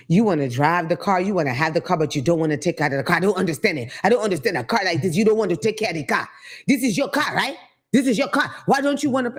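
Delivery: mild mock scolding, climbing in pitch; lightly voiced African attendant. African attendant lecturing a driver about car care, lightly mock-scolding. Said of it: "I had the African one time tell me".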